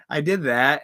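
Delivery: mock villain laugh before the words; Yaga laugh. Waiter laughing at the rude customer, mock cackle. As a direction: cackle like on stream. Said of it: "I did my Yaga laugh".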